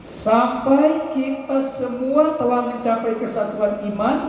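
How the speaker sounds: slow, measured verse read together; slow group recitation. Acted. Preacher and children reciting Ephesians together, slowly.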